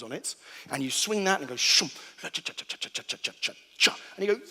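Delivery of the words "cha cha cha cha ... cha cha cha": whispered ticking. Retold or imitated. Imitating the roulette ball ticking.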